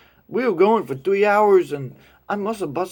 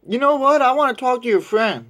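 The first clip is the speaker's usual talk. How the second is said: put-on higher girl's voice; 8 semitones higher, 4 dB louder than usual. Girl voiced in retold story.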